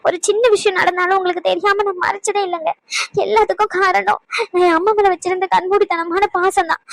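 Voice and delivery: weepy, earnest self-defence with catching breaths; tearful pleading. Acted. Wife swears to angry husband she hid nothing, tearful pleading. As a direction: plead through light tears. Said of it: "இப்படி அழுது அழுது drama போடுறத".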